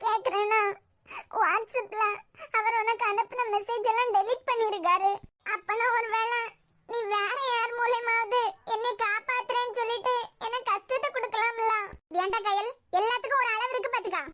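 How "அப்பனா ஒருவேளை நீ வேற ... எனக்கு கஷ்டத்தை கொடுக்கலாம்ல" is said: tearful. Acted. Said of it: "அழாத கயல்".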